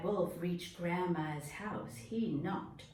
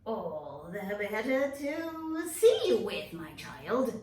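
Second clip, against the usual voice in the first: slow, lightly sly granny voice; wolf covering its tracks; sly wolf as grandma; 4 dB louder, slower than usual. Acted.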